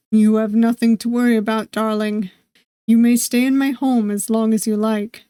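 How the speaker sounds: suave host, a slight Eastern European lilt; a hint of a Russian-accented charmer; light Eastern European accent. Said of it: "His accent is thick and vaguely Eastern European".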